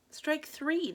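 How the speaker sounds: umpire call. A narrator's reading. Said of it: "the umpire calls".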